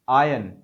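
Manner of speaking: आयन said ajən, no R at all; non-rhotic iron. Shown as a demonstration. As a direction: say आयन with the R silent. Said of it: "हमें नहीं पढ़ना है".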